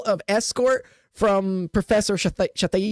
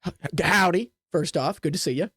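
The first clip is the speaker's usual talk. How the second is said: smooth Deirdre; 4 semitones lower than usual. Acted. Deirdre's low, smooth greeting.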